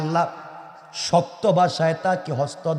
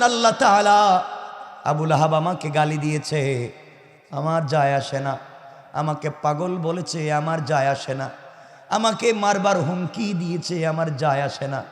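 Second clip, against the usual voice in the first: low, softened imitation of a tearful prayer; tearful plea, retold; 3 semitones lower than usual. Prophet pleading to Allah over insults, retold tearful plea. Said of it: "চুকের পানি ছেড়ে আল্লাহকে ডাক দিয়া বলেছেন".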